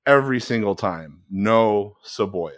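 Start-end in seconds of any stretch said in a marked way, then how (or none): 1.3-2.5 slow, toned-down imitation of Dad; halting dad voice. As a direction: lightly mimic Dad's halting Spanish. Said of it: "in this halting voice".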